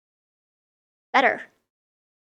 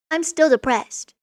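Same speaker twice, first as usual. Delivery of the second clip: mopey king voice; 4 semitones higher, 4 dB louder, slower than usual. Retold or imitated. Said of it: "he's like".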